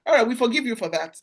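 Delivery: teasing while laughing; laughing forgiveness. Real, not acted. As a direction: chuckle through a playful pardon.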